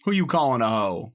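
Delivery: high, loud disbelieving yelp; shocked. Real, not acted. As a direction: react like you can't believe it. Reacts to chat insult.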